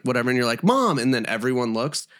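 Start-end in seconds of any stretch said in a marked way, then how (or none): 0.6-1.0 high-pitched call for Mom. Retold or imitated. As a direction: imitate calling for your mother across a crowd. Calling for mom in a crowded room.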